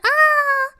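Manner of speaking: high, loud mock scream; mock-frightened high "ah"; retold scream. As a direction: imitate mama's startled shriek. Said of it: "my mama screamed 'cause she thought".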